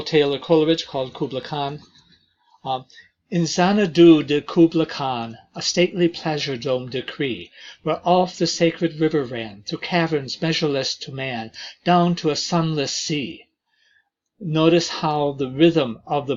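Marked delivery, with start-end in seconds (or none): 3.3-13.5 steady rhythmic verse reading that lets the meter carry it; poem recitation. Acted. Teacher showing students the rhythm of Kubla Khan, rhythmic poem reading. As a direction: read for the beat of the lines.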